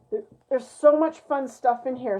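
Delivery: talking through hiccups; suppressing hiccups. Real, not acted. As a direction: hold back a hiccup mid-sentence. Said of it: "Sorry, I have the hiccups".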